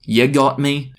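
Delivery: put-on casual Australian drawl; Aussie accent. Zing caught out, in an Aussie accent. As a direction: own up in broad Aussie. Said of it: "has an Aussie accent".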